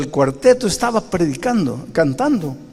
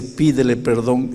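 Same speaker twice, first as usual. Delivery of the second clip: gentle little voice. Retold or imitated. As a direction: coax gently, slowly. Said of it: "Esa vocecita que dice".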